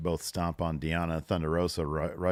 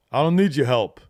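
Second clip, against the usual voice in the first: mock defiant refusal; 6 semitones higher, 9 dB louder than usual. Retold Hook refusing.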